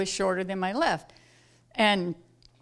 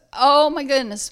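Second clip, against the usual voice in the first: normal talking voice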